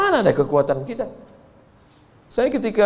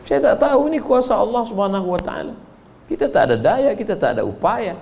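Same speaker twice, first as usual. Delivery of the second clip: earnest protest; 5 semitones higher than usual. Retold or imitated. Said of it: "Saya bilang".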